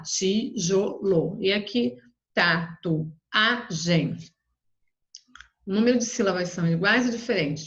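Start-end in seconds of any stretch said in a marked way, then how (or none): 0.0-1.4 TIJOLO slowly split as ti, jo, lo; syllable by syllable. Shown as a demonstration. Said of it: "Você vai separar lá". 2.3-4.2 TATUAGEM very slowly split as ta, tu, a, gem; syllable by syllable. Shown as a demonstration. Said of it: "Você vai separar lá".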